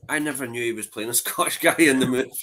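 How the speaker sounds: surprised and laughing; amused. Real, not acted. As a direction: laugh breaking into the sentence.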